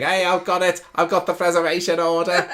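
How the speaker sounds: excited Brummy shout, a bit Scouse; loud, high Brummy impression; Brummy accent. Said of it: "Oh no, that was a bit scouse".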